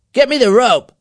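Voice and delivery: high, loud shouted order; commanding. A narrator's reading. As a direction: bark out the order. Leader calls an order.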